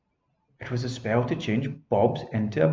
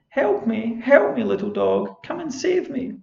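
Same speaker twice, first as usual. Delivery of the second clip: much higher, louder fairy cry for help; calling for help; 11 semitones higher, 5 dB louder than usual. Acted. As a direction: call out to the dog, pleading. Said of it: "she called to him".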